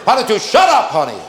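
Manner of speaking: high, loud snap ending on "honey"; mock sweet abuse. Husband and wife abusing each other with endearments, loud high jab. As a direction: insult wrapped in a pet name. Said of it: "calling each other honey as they're abusing".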